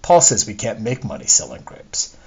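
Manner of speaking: expressive audiobook reading in own voice; first-person story narration. Acted. Author reads a discontented wife's soliloquy to readers, animated narration. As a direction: read it as a wistful, aggrieved character's monologue.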